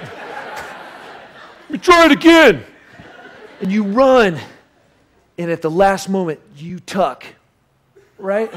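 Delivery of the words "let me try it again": slow, high, laughing mock line; giggly do-over; laughing retry. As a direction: laugh it out slowly, higher. Acting after pool dive.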